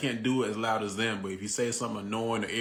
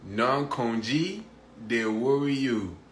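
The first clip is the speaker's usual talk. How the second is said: put-on girlfriend's Pidgin; slower than usual. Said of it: "she say".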